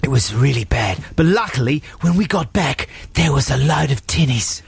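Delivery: hammed-up Aussie mate; broad mock Australian tale-telling; put-on Australian accent. Telling a mate about the fairy lights, Australian accent. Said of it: "authentic Australian friend Adam".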